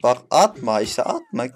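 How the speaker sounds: loud, slow warning; warning a teammate, slow loud yell. Real, not acted. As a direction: drag it out, loud and stern. Yelling at teammate throwing grenades.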